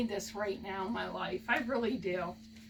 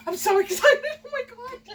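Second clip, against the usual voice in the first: much louder, higher and thrilled; real excitement; 11 semitones higher, 7 dB louder than usual. Real, not acted. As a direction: burst out with joy. Thrilled by concert tickets.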